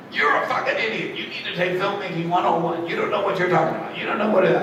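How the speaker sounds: high, laughing mock exec voice; mocking studio exec. Exec insulting the writer, high mock rant with laughter. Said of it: "studio exec yelling at him".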